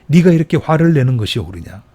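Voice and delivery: stern emphatic rebuke; firmer repeat. Shown as a demonstration. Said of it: "말씀 그대로 읽어보겠습니다".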